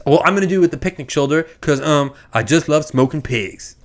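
a hint of a cool, casual heist man ordering; Jamie Foxx impression. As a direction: customer casually picking his cut, lightly impersonated. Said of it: "trying to do my Jamie Foxx impression".

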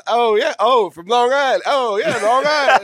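high, hammed-up New York accent, loud; mock a heavy Long Island accent; bad Long Island accent. Host retells doing a bad Long Island accent at the guest. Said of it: "it was so bad when I did it".

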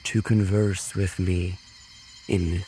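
animal-speech summons. Acted. Spellcaster calling any nearby animal to talk, slow measured summons. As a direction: call out slowly as if summoning. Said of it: "in his newfound animal speech".

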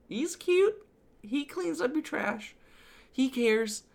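high, sweet gushing. Real, not acted. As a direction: coo over a cute robot. Gushing about Wall-E.

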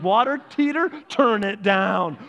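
emphatic cost-cutting. Acted. Preacher recounts the couple slashing bills, loud and emphatic. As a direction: call it out, then stretch the order.

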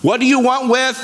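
high-pitched mock cry, little added volume; retold demon outcry. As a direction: lightly act out a demon crying out. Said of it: "screamed in the loudest voice possible".

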